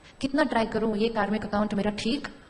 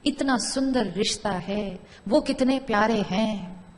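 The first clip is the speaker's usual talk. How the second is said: calm affirmation; slower than usual. Shown as a demonstration. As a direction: say it slowly as a gentle blessing. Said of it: "अब मैंने एक एक thought create करना".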